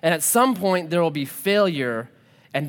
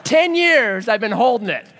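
loud, higher-pitched triumph; gleeful crowing; 4 semitones higher, 5 dB louder than usual. Real, not acted. Preacher finally landing a joke after years, crowing. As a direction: crow over a long-awaited win.

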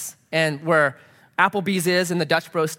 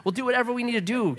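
soft, higher-pitched soothing voice; reassuring; 6 semitones higher, 4 dB quieter than usual. Retold or imitated. Pastor offering the woman a ride, acted reassurance. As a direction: gently placate someone upset.

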